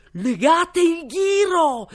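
high, loud furious shriek; shrieking queen. A narrator's reading. Queen shrieking at the guards, furious. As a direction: screech the order at the court. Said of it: "strillò la regina".

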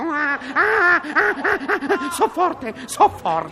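high, slow cackle at his own joke; gloating laugh. Acted. Taxi driver crowing at his own gag, cackling. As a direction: laugh it up, so forte.

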